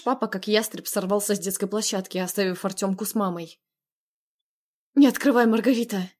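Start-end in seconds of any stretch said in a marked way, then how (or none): 4.9-6.1 urgent plea, louder; pleading. Acted. Narrator begging her sister not to open, pleading. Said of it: "взмолилась я".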